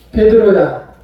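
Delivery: loud call of a name. Retold or imitated. Jesus calling Peter by the sea, loud call. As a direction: call out to Peter across the shore.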